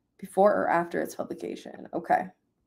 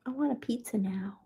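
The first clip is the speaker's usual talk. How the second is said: hushed, longing whisper; whispered craving; 10 dB quieter than usual. Real, not acted. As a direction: sigh it out in a whisper.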